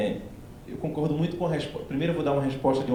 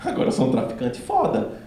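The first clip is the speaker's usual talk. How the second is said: laughing boast; 3 semitones higher than usual. Retold or imitated. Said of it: "Eu falaria".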